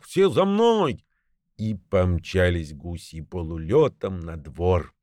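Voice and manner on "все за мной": slow, high shouted order; rallying goose call; gander's command. A narrator's reading. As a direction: lead the flock away, much higher. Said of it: "закричал гусак".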